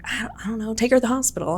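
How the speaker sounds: a touch of retold alarm; retold freak-out. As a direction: imitate a panicking mother, understated. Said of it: "freaking out".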